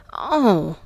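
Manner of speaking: loud, whimpered moan; helpless whimper. A narrator's reading. Woman overwhelmed by Johnny, helpless whimper. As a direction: let out a helpless "oh". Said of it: "I whimpered helplessly".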